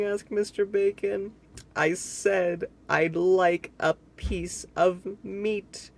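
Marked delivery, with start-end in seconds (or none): 1.8-5.9 roaring. Acted. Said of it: "roared Mister Noisy".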